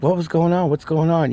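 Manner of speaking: high-pitched retold bewilderment; mock-confused repeated question; baffled questioning. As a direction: act out demanding an explanation, voice up high. Retelling his confused questions at home.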